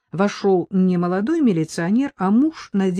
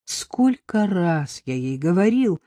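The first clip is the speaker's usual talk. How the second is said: heartfelt; slower than usual. Acted. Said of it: "с глубоким чувством воскликнул Надеждин муж".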